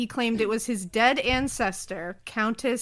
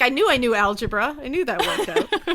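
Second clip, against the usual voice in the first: mock triumph; 2 semitones higher, 5 dB louder than usual. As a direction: crow it through a laugh. Laughing mock triumph over doing sums.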